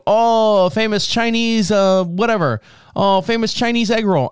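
hammed-up chef bragging about egg rolls; mock hibachi chef. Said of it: "he kept going".

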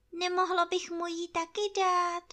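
squeaky and small; tiny piglet. Acted. Ferkel fragt.

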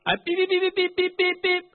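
high, loud string of beeps; loud censored cursing. Acted. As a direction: beep out swear words loudly for others to overhear. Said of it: "but I talk loud".

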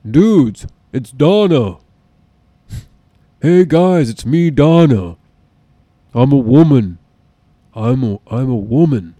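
loud, low, put-on husky woman's voice; booming mock Donna drawl; deep-voiced Donna impression. Mocking Laura Prepon to his friend, loud deep impression. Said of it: "sound like fucking Laura Prepon".

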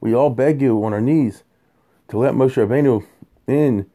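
pleading prayer. Retold or imitated. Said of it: "why didn't they say".

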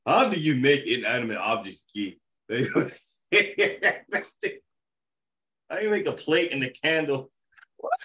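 loosely put-on African accent, mock bewilderment; fake African accent. Podcast host joking to brothers about inanimate objects, fake African accent. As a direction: ask it in a playful, badly faked African accent. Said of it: "that's my fake African accent".

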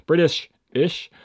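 slow mock British accent. Shown as a demonstration. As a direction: drawl it in a put-on British accent. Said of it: "tried to do, like, British type accents".

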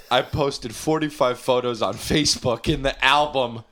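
laughing shout. Real, not acted. Rereading the tweet, cracking up.

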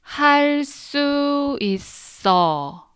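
할 수 있어 drawn out slowly, high and clear. Shown as a demonstration. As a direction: say 할 수 있어 slowly, syllable by syllable. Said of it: "Now slowly three times".

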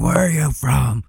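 mocking the racist. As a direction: parrot the pushy question. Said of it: "and be like".

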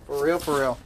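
demanding an answer from the audience; loud call-out. Real, not acted. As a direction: call out to the crowd. Calling out to the audience.

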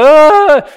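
loud, high-pitched shriek; mock frightened scream. Onlookers freaking out at the demon, mock scream. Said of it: "And we're like".

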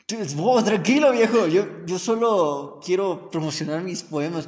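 laughing calm-down. Retold or imitated. Calming the yeller, laughing.

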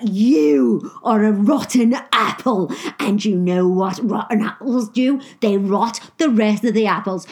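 loud, slow, pompous telling-off; stern manager. Retold or imitated. Manager sacking the teen over his tape, loud and stern. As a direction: lay it out slowly like a stern boss.

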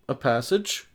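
"A passage?" with a questioning lift; asked as a question. Retold or imitated. Reader voicing Batman's line, "A passage?" asked questioningly. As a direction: read "A passage?" as a puzzled question. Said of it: "he says as a question".

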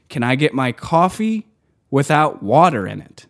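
rising disbelief on "coffee", as if the question makes no sense; incredulous echo. Retold or imitated. Barista repeating a strange order back to the customer, incredulous. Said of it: "I was like".

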